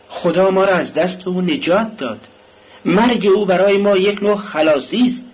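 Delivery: a worn-out wife bitterly speaking of her husband; Katerina's bitter complaint. Acted.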